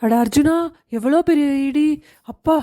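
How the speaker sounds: jolted by a huge thunderclap; startled by thunder. Acted. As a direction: gasp it out as thunder cracks.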